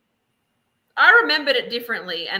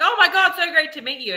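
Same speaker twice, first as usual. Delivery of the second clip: mock-gushing greeting, pitched up with a laugh in it; dripping with sarcasm; 7 semitones higher, 4 dB louder than usual. Imitating a castaway greeting someone while shaking hands, dripping with sarcasm. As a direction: imitate a fake-delighted hello, laced with sarcasm. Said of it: "it's dripping with sarcasm".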